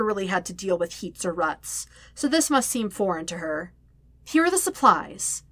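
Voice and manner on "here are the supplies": grudging. A narrator's reading. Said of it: "she said grudgingly".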